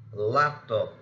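"laptop" with LAP leading, top lighter; first-syllable stress. Shown as a demonstration. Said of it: "the first syllable of such words".

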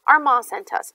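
loud, husky put-on voice; lightly acted husky disguise. A narrator's reading. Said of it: "she said in a husky voice".

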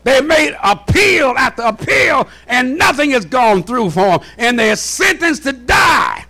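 emphatic, ringing pulpit delivery; impassioned preaching. Real, not acted. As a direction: hammer each point home to the congregation. Preaching at full force.

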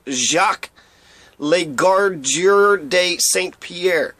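Jacques Legardeur de Saint-Pierre said slowly, French style; French name. Shown as a demonstration. Sounding out the French commandant's name. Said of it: "Ja-, Jacques".

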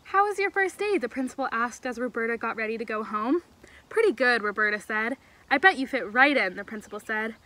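clear, animated storybook reading; story read-aloud. A narrator's reading. Camp leader reading a story to kids, animated storytelling. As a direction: read expressively to a group of children.

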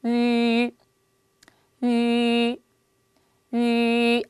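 위 with rounded lips fixed, no glide; Chinese ü. Shown as a demonstration. Teacher shows 위 with fixed rounded lips for students. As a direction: hold lips round through the whole 위. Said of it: "다시 들어갑니다".

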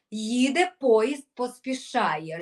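very slow, drawn-out Їде поїзд, поспішає; slow opening of the train chant; slow train start. Shown as a demonstration. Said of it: "прискорюємо наш поїзд".

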